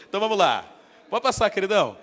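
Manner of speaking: ordinary talk, nothing marked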